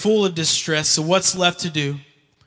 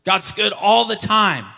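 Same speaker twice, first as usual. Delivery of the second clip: mock pious cheer; 5 semitones higher than usual. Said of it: "We're just like".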